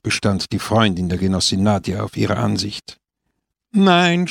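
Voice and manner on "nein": Nein, higher and louder, final; flat refusal, raised and resolute; firm no. A narrator's reading. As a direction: cut her off with a decisive Nein. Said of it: "stellte Pepone entschieden fest".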